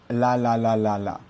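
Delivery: la with a light French L; light tongue-tip la. Shown as a demonstration. Teacher shows the French way of saying la. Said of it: "un Français va le prononcer la".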